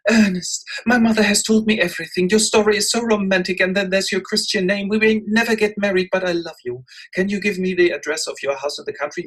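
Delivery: put-on high, eager young lady in love; breathless romantic young woman, pitched high; a smitten young lady pours out her heart; gushing Gwendolen. Gwendolen voiced throughout.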